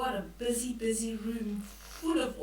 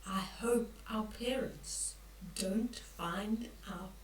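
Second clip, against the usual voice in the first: whispered, worried secret; the boy hiding his pets, whispering; 3 semitones lower, 6 dB quieter than usual. Acted. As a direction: whisper it so parents won't hear. Child's secret worry in book.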